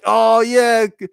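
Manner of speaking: high-pitched mock rooting; cheering on. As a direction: egg them on in a high, excited voice. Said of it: "you're rooting for".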